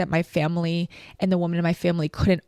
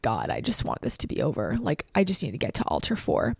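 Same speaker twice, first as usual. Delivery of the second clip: weary and drained; 5 semitones lower, 4 dB quieter than usual. Retold or imitated. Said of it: "I was tired at this point".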